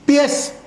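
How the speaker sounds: "pies" punched out high, on its own; stress on PIES. Shown as a demonstration. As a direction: hit the word "pies" as the stressed syllable. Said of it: "la pronunciación está aquí".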